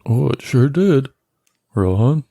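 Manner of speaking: high, lofty snooty wizard. Acted. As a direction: say it like a smug elf. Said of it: "like, a real snooty voice".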